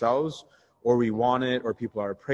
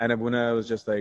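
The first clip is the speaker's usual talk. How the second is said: ordinary talk, nothing marked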